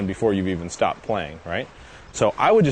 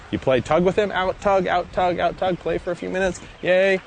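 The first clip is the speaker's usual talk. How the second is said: high, bright, keyed-up play chatter; excited play voice; 10 semitones higher than usual. Shown as a demonstration. Trainer showing how to play tug with the dog, high and excited. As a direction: hype the dog up as you play.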